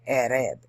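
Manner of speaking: Arab said as "EH-reb"; "ereb" vowels in Arab; native pronunciation. Shown as a demonstration. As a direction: say Arab with an E in both syllables. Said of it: "It's E R E B".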